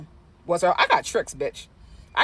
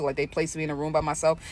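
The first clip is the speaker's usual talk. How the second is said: ordinary talk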